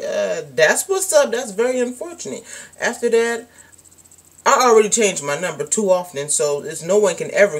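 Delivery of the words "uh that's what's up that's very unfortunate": sarcastic brush-off. Pretend. Brushing off a parent who needs you, sarcastic. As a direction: dismiss the parent with fake pity. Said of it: "and I'm like".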